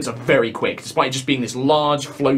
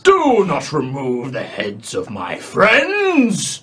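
strange unseen voice; much slower than usual. Acted. Hidden voice protests removing heads.

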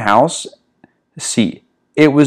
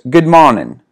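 southern voice; 3 semitones higher than usual. Acted. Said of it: "read this in a southern voice here".

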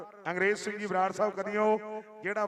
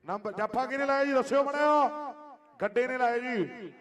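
frantic rural sports commentary. Real, not acted. Live kabaddi commentary on mic.

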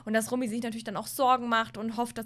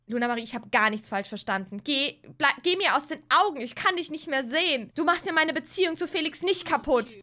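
angry sister; 2 semitones higher, 3 dB louder than usual. Acted. Sisters' acted quarrel.

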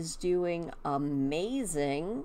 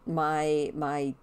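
whistling s. Real, not acted. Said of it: "I have a little bit of a whistle".

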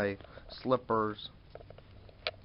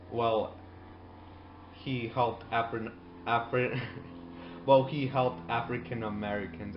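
flustered correction; 4 dB louder than usual. Retold or imitated. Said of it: "as I should say".

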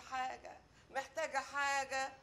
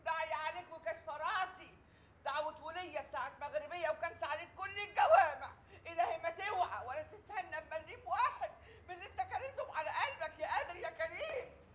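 higher, fervent curse; cursing wail; 4 semitones higher than usual. Acted. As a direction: call down curses on him. Wife cursing ex-husband. (دعاء غاضب)

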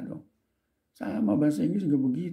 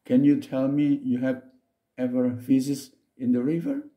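slow read; 2 semitones higher than usual. Shown as a demonstration. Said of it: "Saya ulang lagi".

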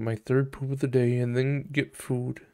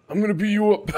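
mock threat; 8 semitones higher, faster than usual. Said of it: "And he said".

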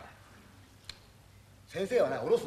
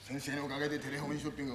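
mock-serious plea; 3 semitones lower, 8 dB quieter than usual. Shown as a demonstration. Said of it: "真剣な声で言えよ".

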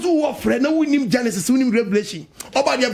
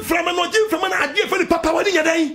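fiery preaching; 5 semitones higher than usual. Real, not acted. Pastor preaching to the congregation on Job, at full force. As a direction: preach it hard and rising to the crowd.

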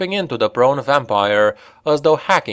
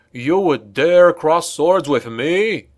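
higher, slow vampire sneer; 5 semitones higher, slower than usual. Acted. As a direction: sneer it slowly and haughtily. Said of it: "the vampire sneered".

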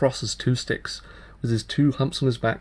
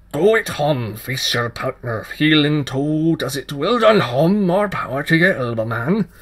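put-on excited fairy child; 3 semitones higher, 7 dB louder than usual. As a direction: whoop him on as you dance. Child cheers while dancing.

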